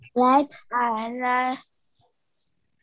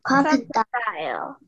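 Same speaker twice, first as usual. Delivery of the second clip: group repeating after leader. Real, not acted. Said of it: "everyone repeat after me".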